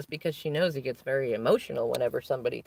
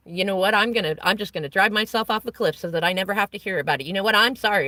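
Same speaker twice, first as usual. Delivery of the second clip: fast, louder mock rant imitating dad; retold angry outburst; 4 semitones higher, 5 dB louder, faster than usual. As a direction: rattle off dad's angry threat, a bit louder. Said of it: "he started shouting about how he'll go drive off a cliff".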